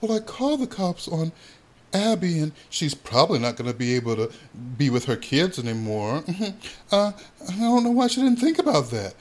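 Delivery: breezy, offhand imitation of Ken; nonchalant. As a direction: imitate him shrugging it off.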